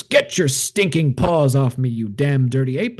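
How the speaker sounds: slowed, dramatic defiance quoting the film hero; dramatic movie line. Retold or imitated. Captured astronaut snarling at the apes, lightly hammed-up defiance. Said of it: "a big, you know, dramatic moment".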